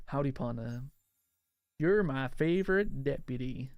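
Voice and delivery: lightly voiced cartoon cowboy sheriff; Woody. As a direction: drawl it a little like a toy cowboy. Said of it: "do Woody lines?".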